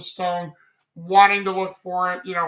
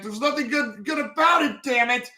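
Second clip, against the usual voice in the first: higher-pitched indignant retort; upset protest; 6 semitones higher than usual. Retold or imitated. Edward snapping at the guards about the experiment, higher pitched. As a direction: push back hard, voice climbing. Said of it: "And Edward's like".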